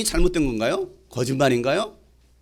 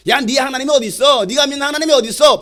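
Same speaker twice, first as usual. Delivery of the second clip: loud, high jeering challenge; mocking; 5 semitones higher, 4 dB louder than usual. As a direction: taunt the believer, voice raised. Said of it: "비웃어요. 조롱합니다". (비웃듯 높고 크게 조롱하며)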